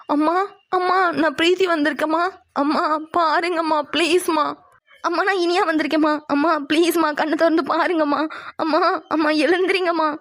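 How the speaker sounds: crying daughter begging her mother to wake; tearful calling. Acted. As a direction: call out through tears, pleading. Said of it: "தயவு செஞ்சு அழுகாம கூப்பிடுங்க". (அழுதுகொண்டே அம்மாவை அழைத்தல்)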